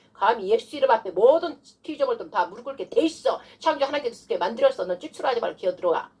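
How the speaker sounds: commanding prayer against a demon, starting high; authoritative demonstration of exorcism; forceful rebuke. Shown as a demonstration. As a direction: put the devil in its place. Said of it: "딱 이렇게 해줘야 돼요".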